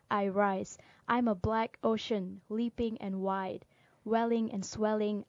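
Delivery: rhythmic poetry reading with a repeated refrain; poem recitation. Acted. Closing Still I Rise for listeners, emphatic rhythmic recitation. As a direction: stress each image and land firmly on the refrain.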